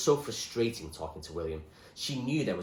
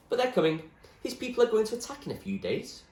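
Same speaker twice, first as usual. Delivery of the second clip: put-on raised boyish voice, urgent; William, worried; 14 semitones higher, 5 dB louder than usual. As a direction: warn her they're coming. William warns of attack.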